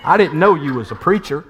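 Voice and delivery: lightly voiced Alabama accent; retold switch to Southern accent; imitated Southern Black woman's accent. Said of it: "went from this really proper accent to".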